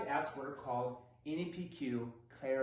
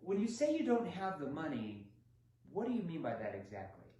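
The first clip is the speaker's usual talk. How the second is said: calm clarifying tone. Shown as a demonstration. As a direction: ask it as if you truly want to understand. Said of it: "Or this".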